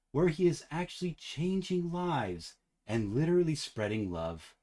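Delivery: slow, lilting, dreamy read of the monologue; imitating a slow sing-songy cadence; sing-songy dream voice. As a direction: read it like a man lost in a pleasant dream. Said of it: "he did say in that weird sing-songy dream voice".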